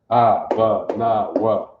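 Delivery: "Abba, na, wa" repeated as AH-buh, nah, wah with a falling "Abba"; Hebrew recitation repeated. Shown as a demonstration. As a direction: say "Abba, na, wa" again so they catch it. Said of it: "You got that?".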